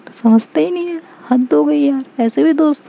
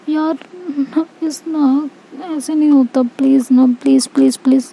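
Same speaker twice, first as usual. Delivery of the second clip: whiny pleading; 4 semitones higher than usual. Acted. Aashi begging girlfriend for kiss.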